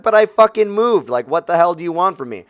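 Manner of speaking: fed-up protest at the reps; exasperated retort. Retold or imitated. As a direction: plead in angry disbelief.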